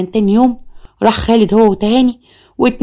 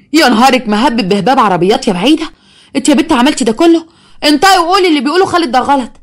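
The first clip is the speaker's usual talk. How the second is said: mother scolding; 5 semitones higher than usual. Acted. Mother scolding shocked daughter.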